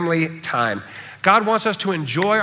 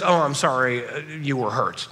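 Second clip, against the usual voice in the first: dumb apology; 4 semitones lower than usual. Shown as a demonstration. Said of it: "the dumb apology that says".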